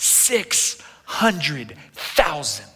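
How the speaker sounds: very slow, each word weighed; slow emphatic repeat. Real, not acted. Preacher echoing congregation's answer, drawn out. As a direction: let the number sink in, drawn out.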